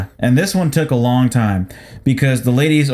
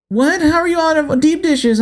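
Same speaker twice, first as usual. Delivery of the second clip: much higher, incredulous squeal; mock indignant shock; 13 semitones higher than usual. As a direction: gasp it in mock outrage. Mocking shocked customer.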